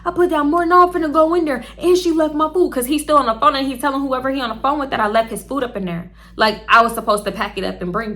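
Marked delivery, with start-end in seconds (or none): 0.1-2.7 higher, defensive mock voice; mimicking boyfriend. Imitating the boyfriend insisting he paid, higher mock whine. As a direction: play him as indignant and whiny. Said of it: "So I'm like".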